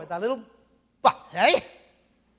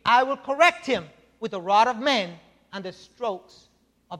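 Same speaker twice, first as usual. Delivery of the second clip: loud, measured proclamation of the text; scripture reading; 5 dB louder than usual. Acted. Preacher reading God's promise to David aloud, loud and solemn.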